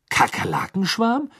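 very high rising, baffled question; puzzled. Acted. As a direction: say it stunned and unsure. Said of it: "sagte er verdutzt".

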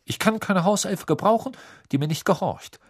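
cold. A narrator's reading. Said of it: "sagte er kalt".

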